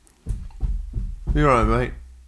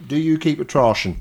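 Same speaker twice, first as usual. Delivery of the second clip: Norfolk accent; 2 semitones higher than usual. Shown as a demonstration. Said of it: "speak in a Norfolk accent".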